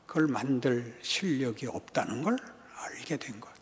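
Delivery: sudden hushed whisper; preacher's dramatic whisper. Real, not acted. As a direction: drop to a breathy whisper for weight. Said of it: "preacher drops to a whisper".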